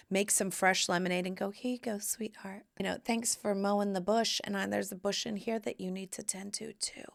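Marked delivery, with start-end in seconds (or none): 1.5-7.0 softly spoken, suggestive innuendo; coy sweet wife. Acted. Wife serving her sweating husband lemonade, coy and soft. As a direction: offer it softly, with a playful hint.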